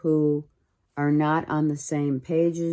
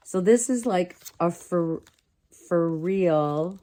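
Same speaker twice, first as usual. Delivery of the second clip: put-on a light California Valley girl lilt; 2 semitones higher than usual. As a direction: slip into a hint of Valley girl, half joking. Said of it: "California Valley girl".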